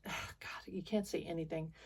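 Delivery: soft whispered complaint; whispered aside. Real, not acted. Grumbling to viewers that she can't say anything, whispered. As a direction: whisper it under your breath. Self-censoring about a taboo topic.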